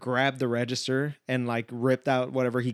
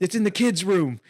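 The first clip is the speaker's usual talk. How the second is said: higher-pitched imitated holler; mock calling out; 6 semitones higher than usual. Homeowner directing his wife to the gun, mock urgency. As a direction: keep calling across the house, lightly acted.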